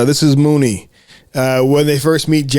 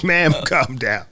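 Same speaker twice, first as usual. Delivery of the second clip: calming man voice; 3 dB quieter, slower than usual. Retold or imitated.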